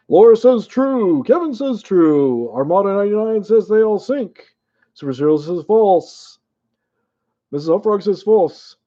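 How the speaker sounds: lightly hammed-up game show host. Shown as a demonstration. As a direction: announce each answer like a TV quiz host. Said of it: "I gotta have my game show voice going".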